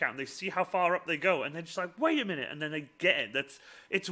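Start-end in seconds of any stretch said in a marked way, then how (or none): 2.0-2.5 high-pitched "hang on" disbelief; lightly acted incredulity; mock double take. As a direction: imitate someone suddenly puzzled.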